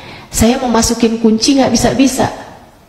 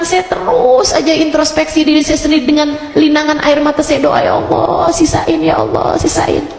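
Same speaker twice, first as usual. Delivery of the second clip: higher-pitched imploring retelling; retold tearful plea; 4 semitones higher than usual. Woman praying through tears for more time, retold pleading. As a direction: beg in a raised voice, without real sobbing.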